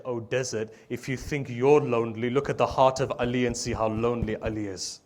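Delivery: loud, anguished cry to the desert; impassioned lament. Retold or imitated. The Imam crying out to the lonely desert, impassioned lament. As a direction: quote the Imam's lament, pushing the volume hard.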